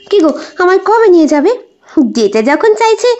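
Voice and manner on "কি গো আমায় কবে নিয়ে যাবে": higher, quick, coaxing plea; coaxing wife. Acted. Wife coaxing husband to take her along, quick and high. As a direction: wheedle him to take you along.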